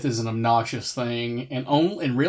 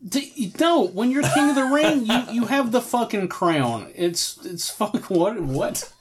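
excited; 8 semitones higher than usual. Real, not acted. Excited rant about the crown.

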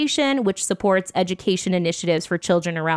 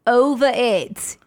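slow, drawn-out failed Aussie "Over it"; botched Australian accent; bad Australian accent; 3 semitones higher, slower than usual. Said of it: "I cannot do an accent".

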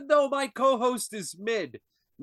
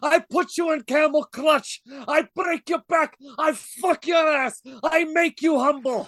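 wrestling promo shout. Acted.

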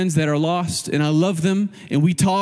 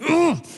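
drawn-out mock groan of disgust; a slow, grumbled "ugh"; grumbling groan; 11 semitones higher than usual. Pastor imitating the grumbler's response to everything, mock groan. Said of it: "just grumbling".

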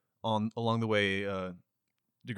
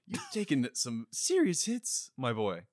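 slow and fatherly, like a country doctor; kindly doctor; 2 semitones higher, 3 dB quieter than usual. Acted. Doctor NPC comforts patient.

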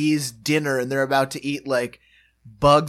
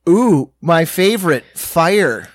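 excited Dan quote; 2 semitones higher, 7 dB louder, slower than usual. Retold or imitated. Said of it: "And Dan just".

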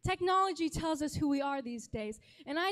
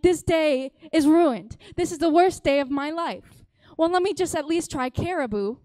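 over-the-top lament; melodramatic despair; 9 dB louder than usual. Retold or imitated. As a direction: cry out that the day is ruined, hammed-up. Sixth letdown, melodramatic despair.

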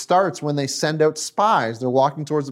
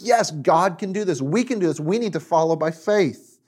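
higher-pitched, emphatic rallying quote; urging confidence; 4 semitones higher than usual. Acted. Preacher voices Caleb urging faith, confident rallying. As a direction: urge them on as Caleb, pitched up.

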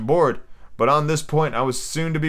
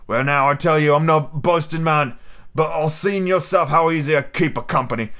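pirate voice; 4 semitones higher than usual. Acted. Silver's pirate voice.

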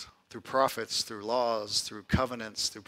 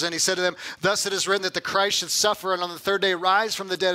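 raised, declaimed Bible reading; emphatic scripture reading; 4 semitones higher than usual. Acted. Preacher reading Jesus' commission to his disciples, emphatic. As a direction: proclaim the verses to the room.

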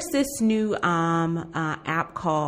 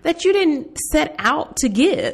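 much higher and louder, laughing through it; laughing warning; 9 semitones higher, 6 dB louder than usual. Real, not acted. Cohost jumping in on the warning, laughing. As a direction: laugh while chiming in.

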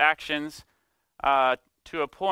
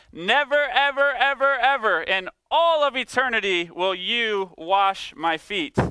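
much higher and louder "Never, ever, ever"; emphatic never; 6 semitones higher, 4 dB louder than usual. Retold or imitated. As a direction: build an outraged cry on the nevers. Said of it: "He's saying".

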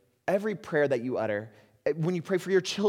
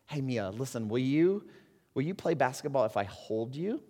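gentle father; 4 dB quieter than usual. Retold or imitated. Father kneels to crying daughter.

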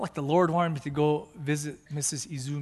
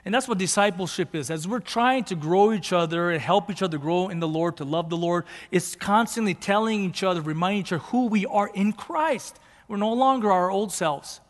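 firm, raised pulpit voice; emphatic preaching; 4 semitones higher, 5 dB louder than usual. Real, not acted. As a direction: drive the teaching home to a congregation. Preaches at full force.

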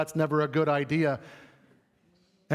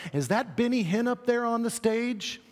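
much higher, incredulous gasp of a question; mock startled question; 7 semitones higher than usual. Congregation suspecting a prosperity preacher, mock alarm. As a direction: play a shocked churchgoer. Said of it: "before you all start going".

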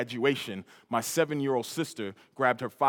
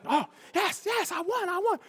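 high, sing-song gloating, much higher; sister gloating; 3 dB quieter than usual. Retold or imitated. Sister gloating to the family that she won, high and sing-song. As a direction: crow over the win. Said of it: "my sister's going on".

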